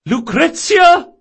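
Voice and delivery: high, loud, drawn-out call; shout. Acted. Old woman to granddaughter upstairs, high shouted summons. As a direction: call slowly up to an upstairs window. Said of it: "turned her head upward and shouted".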